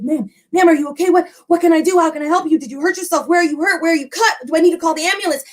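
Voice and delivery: panicked man fussing over a hurt stranger; frantic. Acted. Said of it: "he's frantic now and he's asking her".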